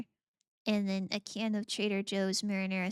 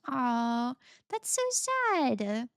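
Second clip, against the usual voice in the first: mock sad; much slower than usual. Mock sympathy to chat.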